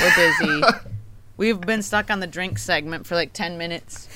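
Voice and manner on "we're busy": squeaky. Pretend. Mock protest at moving on.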